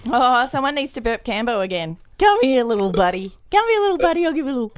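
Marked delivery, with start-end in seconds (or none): 2.2-4.7 put-on babying coaxing. Pretends to burp a baby.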